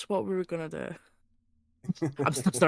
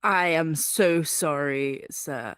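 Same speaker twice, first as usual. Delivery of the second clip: nervous apology; 4 semitones higher, much slower than usual. Acted. Nervous companion apologizing slowly.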